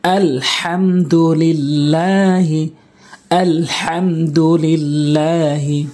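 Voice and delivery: slow, drawn-out Quranic recitation; measured teaching recitation; recitation demo. Shown as a demonstration. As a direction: recite slowly, each syllable held and clear.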